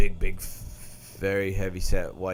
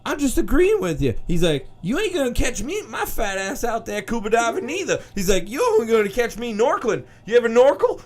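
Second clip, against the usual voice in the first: higher, joking impression voice; hammed-up impression; 12 semitones higher than usual. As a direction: play along with the woman in the theater. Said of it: "He said".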